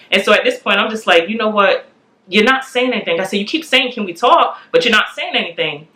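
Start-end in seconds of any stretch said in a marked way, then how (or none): 1.3-3.2 mildly exasperated, slightly raised pitch; frustrated retort. Retold or imitated. Wife retelling how she answered her husband, mildly frustrated. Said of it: "I'm frustrated". 3.4-5.9 mildly exasperated, slightly raised pitch; frustrated retort. Retold or imitated. Wife retelling how she answered her husband, mildly frustrated. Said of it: "I'm frustrated".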